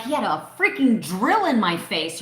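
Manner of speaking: indignant retort; retold indignation. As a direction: snap back in disbelief. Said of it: "I'm like".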